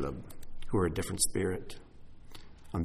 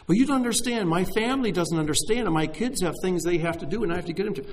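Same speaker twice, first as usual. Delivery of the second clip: high, pleading excuse in a higher voice; mock excuse; 8 semitones higher than usual. Preacher mimicking a congregant's busy-family excuse, high and pleading.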